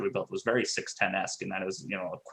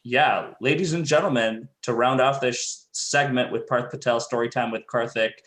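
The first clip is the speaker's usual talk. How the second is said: loud, booming hype announcer; game announcer voice; 3 semitones higher, 4 dB louder than usual. Pretend. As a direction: hype the crowd like an arena announcer. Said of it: "in your best game announcer voice".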